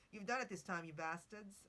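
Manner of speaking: mock a singer in a clumsy English accent; bad English accent. Podcaster doing a singer in a bad English accent, mock and clumsy. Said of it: "Let me do it in an accent".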